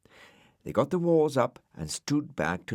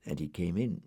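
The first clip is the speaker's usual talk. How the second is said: plain reading voice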